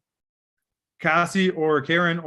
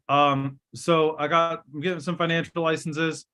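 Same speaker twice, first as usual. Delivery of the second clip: halting, pausing mid-pitch; awkward pauses. Shown as a demonstration. Trainer showing agents how not to pitch, awkward pauses. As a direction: hesitate awkwardly in the middle of the pitch. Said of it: "don't pause awkwardly in the middle".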